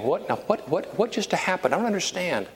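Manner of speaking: mock bafflement, pitch lifting; bewildered. Sitting in his car, puzzling over the warning, bewildered.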